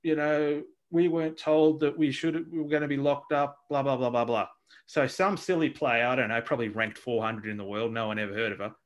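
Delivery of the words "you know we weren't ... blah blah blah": mildly mocking whinge, pitched up at first; whinging imitation. Mocking locked-down tennis players to co-host, lightly whingeing. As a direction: mimic complainers, tailing into dismissive blahs. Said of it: "they start bitching and whinging".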